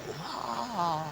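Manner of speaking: soft, breath-like imitated scream; toned-down high cry; mock scream. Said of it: "Waktu dia teriak".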